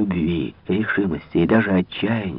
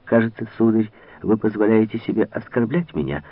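usual speaking voice

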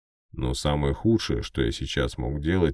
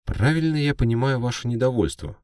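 much higher, loud, trembling; nervous reporter; 10 semitones higher, 4 dB louder than usual. Acted. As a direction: ask it with a shaking voice. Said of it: "голос у него явно дрожал".

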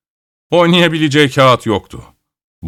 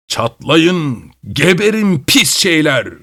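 mild yell; 4 semitones higher, slower than usual. A narrator's reading. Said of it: "diye haykırdı".

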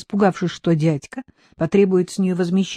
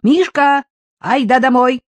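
high, loud call to the goat; girl calling out; 6 semitones higher, 6 dB louder than usual. A narrator's reading. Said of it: "крикнула". (девочка кричит козлу)

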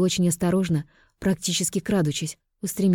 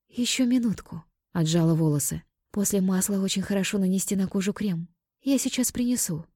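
put-on sweet young woman, pitched up; 3 semitones higher, 3 dB quieter than usual. Selen voiced, high.

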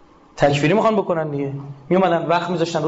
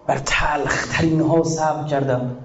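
ordinary delivery

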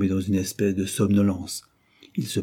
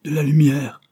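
plaintive; 7 semitones higher, 7 dB louder than usual. Acted. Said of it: "répéta la voix plaintive".

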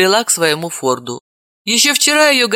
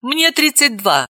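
mournful; 8 semitones higher than usual. A narrator's reading. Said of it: "горестно сообщила Далила".

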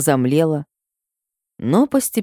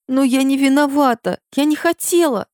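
high, pleading protest; desperate plea; 12 semitones higher than usual. Acted. Heroine pleading with the rector, high and desperate. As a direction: beg him to believe her.

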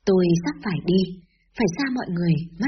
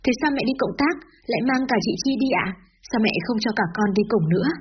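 put-on naive little girl asking; 3 semitones higher than usual. Little Hương naively asks her mother why she's leaving, lightly childlike. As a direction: ask like a puzzled little sister who doesn't understand. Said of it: "ngây ngô hỏi".

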